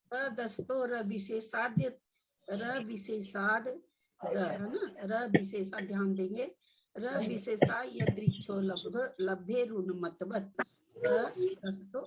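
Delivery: सदस्तो र विशेषाद spoken phrase by phrase with pauses; slow teaching recitation, pausing between words; slow halting recitation. Shown as a demonstration. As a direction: break the sutra into slow pieces for learners. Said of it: "समझने के लिए हम रुक रुक के बोल रहे हैं".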